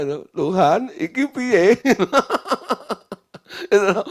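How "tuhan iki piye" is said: higher, pressing plea to God; pleading prayer. Retold or imitated. Pastor reporting to his boss God, urgently pleading. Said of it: "Saya lapor, gitu loh, sama bos saya".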